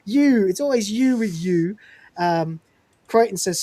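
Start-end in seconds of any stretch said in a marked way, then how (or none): 0.0-1.8 retold Rimmer rant. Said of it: "he goes".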